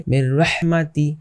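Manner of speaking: মির রহমাতি joined on a doubled r, no hum; merged without ghunnah. Shown as a demonstration. Teacher shows how to pronounce it, মির রহমাতি merged on r. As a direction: lean from মির straight into the r of রহমাতি. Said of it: "এখন কিভাবে উচ্চারণ করতে পারি".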